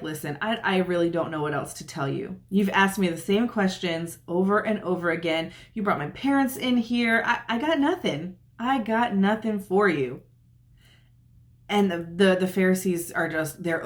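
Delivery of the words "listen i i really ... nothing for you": like he's run out of answers; fed-up sigh. Retold or imitated. Man worn out by questioning.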